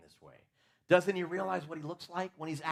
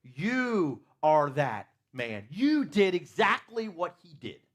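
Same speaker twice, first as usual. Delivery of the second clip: stern accusation; 5 dB louder, slower than usual. Acted. Nathan confronts David.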